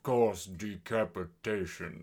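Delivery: low, slow hammed-up villain finish; dramatic deep villain voice. Podcaster imitating the villain's weakness list, hammed-up deep voice. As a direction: end the list with mock gravity. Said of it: "like, dramatic voice".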